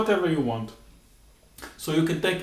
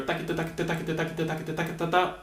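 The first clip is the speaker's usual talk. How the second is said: quieter quick "takita" chain; faster takita; 5 dB quieter, much faster than usual. Shown as a demonstration. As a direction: speed the syllables up. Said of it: "get a little faster".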